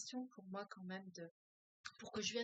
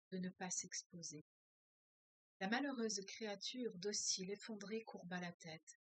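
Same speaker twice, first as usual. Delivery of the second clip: measured, steady reading-aloud voice; story reading. A narrator's reading. Teacher reading a novel aloud to her class, measured narration. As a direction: read the novel passage to the group, calm and even.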